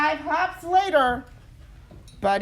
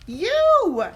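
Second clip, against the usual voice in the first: louder, higher, emphatic; exasperated mother; 11 semitones higher, 7 dB louder than usual. Acted. Mother insisting to Buddy, exasperated. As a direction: point it out firmly.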